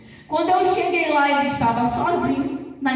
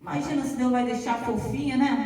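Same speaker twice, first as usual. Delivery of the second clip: ordinary talk, nothing marked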